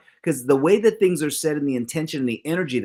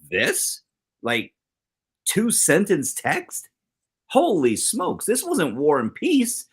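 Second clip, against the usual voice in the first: incredulous disbelief; 3 semitones higher than usual. Retold or imitated. Telling wife about a misread text.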